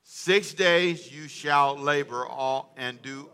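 slow, measured read-along; leading read-aloud. Shown as a demonstration. Preacher leading the congregation in reading aloud, slow and measured. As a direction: read it out slowly for others to join in. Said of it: "read this out loud with me".

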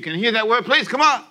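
rally the room to answer back; urging call. Real, not acted. Urging the congregation to respond.

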